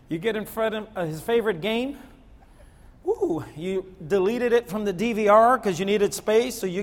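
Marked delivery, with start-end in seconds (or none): 3.0-3.4 high, short woo; teasing whoop; playful woo. Pretend. Preacher teases about a deleted game, high playful woo.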